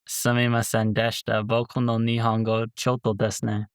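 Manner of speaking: English speaker's careful Japanese; japanese learner accent. Pretend. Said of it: "That's pretty good".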